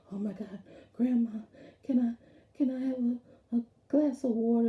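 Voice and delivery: put-on small boy asking sweetly for water; a grandson pleading for a drink; child voice.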